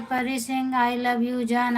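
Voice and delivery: slowly rereading the viewer's full name; slow, deliberate reading. Shown as a demonstration. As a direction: spell out each word slowly. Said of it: "ये तो मैं पढ़ रही हूँ कि आपका पूरा नाम है".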